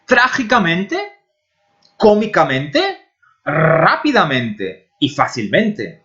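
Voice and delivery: Trágicamente, comicamente, rapidamente and facilmente read as a Spanish list, slowing at the end; Spanish pronunciation. Shown as a demonstration. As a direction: list the adverbs in Spanish, each one clearly. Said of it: "quando coloco o sufixo mente". (lista de advérbios lida em espanhol, desacelerando no final)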